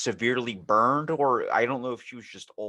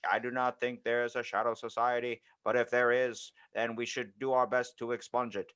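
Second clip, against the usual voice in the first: JFK impression; 4 dB quieter than usual. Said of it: "my J F K impression".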